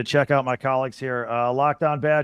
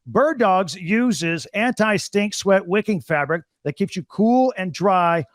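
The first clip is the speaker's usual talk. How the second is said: brisk upbeat sponsor read, a bit fast in places; host-read podcast ad, upbeat and pitchy. Acted. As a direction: sell the shorts like a radio spot.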